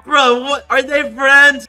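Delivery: high, loud outburst; incredulous. Real, not acted. Player suspects his accusers are friends, incredulous. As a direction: blurt it out in loud disbelief.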